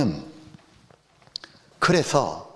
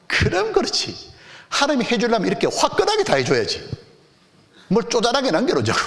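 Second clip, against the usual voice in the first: excited delight; 6 semitones higher than usual. Retold or imitated. Recalled inner joy at forgiveness.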